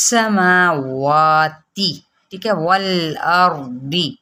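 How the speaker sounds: سماواتی slow, madd one alif long; Quranic recitation. Shown as a demonstration. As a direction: stretch the long vowels evenly. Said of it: "ایک الف کے برابر". (ایک الف کے برابر کھینچ کر)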